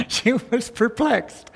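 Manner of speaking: hushed delight in the phrase; savoring. Shown as a demonstration. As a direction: linger lovingly over perplexed. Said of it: "I love that".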